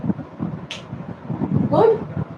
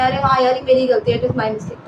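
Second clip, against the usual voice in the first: friendly tone. Shown as a demonstration. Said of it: "friendly tone में".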